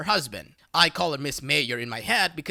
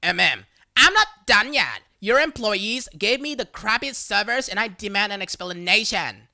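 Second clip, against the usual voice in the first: louder mock yell of a demanding woman; imitating a woman yelling after someone, louder; retold loud scream; 2 semitones higher, 4 dB louder than usual. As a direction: bark it at her retreating back. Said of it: "I hear this loud scream".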